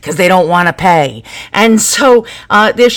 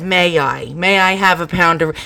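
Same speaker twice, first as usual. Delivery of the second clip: polite request; 3 semitones lower than usual. Retold or imitated. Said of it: "they never said".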